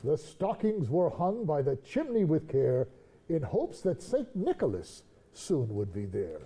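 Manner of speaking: slow storytelling reading; poem reading. Acted. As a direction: read it like a bedtime poem. Reads the poem aloud.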